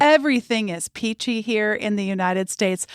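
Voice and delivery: mock-earnest praise, amusement breaking through; sarcastic. Shown as a demonstration. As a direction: say it with tongue in cheek, chuckling partway. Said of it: "I am being incredibly sarcastic".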